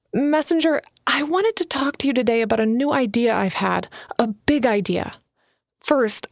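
a hint of a nervous young writer pitching her idea; young Alana, eager. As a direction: lift the voice a little for eager Alana. Alana's dialogue voiced by narrator.

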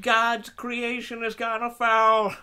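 slow dramatic commentary; solemn race caller; announcer voice. Pretend. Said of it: "you had that announcer voice".

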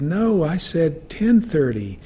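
retelling how he spoke up for poor hearing; speaking up. Retold or imitated. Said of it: "And I spoke loud, more loudly".

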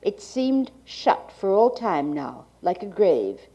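like a 1980s archival tape. Real, not acted. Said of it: "the cassette holding the speaker's reading".

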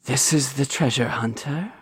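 lightly voiced giant woman, rising in question; a hint of an imposing boss, questioning; giant crime boss. Giant woman speaks in game master's scene.

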